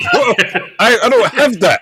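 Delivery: high and loud through laughter; laughing. Real, not acted. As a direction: laugh while admitting it. Laughing at himself.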